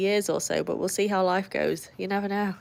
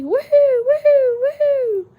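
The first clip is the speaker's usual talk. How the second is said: high, loud, drawn-out whoops; excited whoop; 10 dB louder, much slower than usual. Real, not acted. Streamer cheering a viewer who just levelled up, loud high whooping. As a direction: cheer it like a celebration.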